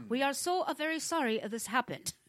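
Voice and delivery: lightly put-on corporate accent reading Google's apology; mock accent. Host mocking Google's spokesperson, faint put-on accent. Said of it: "I like that accent you just used".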